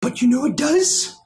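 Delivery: high loud dramatic squawk; high hen warning of the clam crazies; hen reveal. Acted. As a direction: shriek out the dreaded name.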